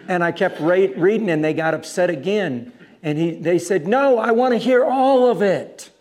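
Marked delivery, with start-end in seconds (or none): 3.9-5.9 high, loud retold demand; calling out over objectors, pitched way up; insistent demand. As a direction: imitate someone loudly overruling a crowd. Retold insistence against upset crowd.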